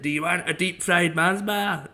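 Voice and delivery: imitating a Scottish chip shop owner. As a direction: lay the Scottish on thick. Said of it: "I don't know why I went more Scottish".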